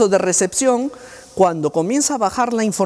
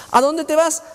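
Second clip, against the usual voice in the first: therapist voice; 10 semitones higher than usual. Retold or imitated. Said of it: "therapist asks child".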